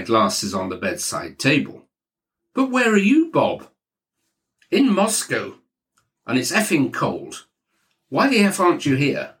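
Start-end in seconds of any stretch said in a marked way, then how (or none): 2.5-3.7 Maxwell booming. Acted. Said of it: "He was booming down the line". 4.7-9.3 Maxwell booming. Acted. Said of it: "He was booming down the line".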